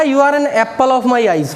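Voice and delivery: slow, careful reading for the class; slow read aloud. Shown as a demonstration. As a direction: read it out slowly, word by word. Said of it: "अगला". (धीमे-धीमे पढ़कर सुनाना)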